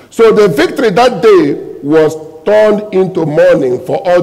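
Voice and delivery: loud, declamatory Bible reading; scripture reading. Acted. Preacher reads Joab's story to the congregation, declamatory. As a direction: proclaim the passage to the congregation.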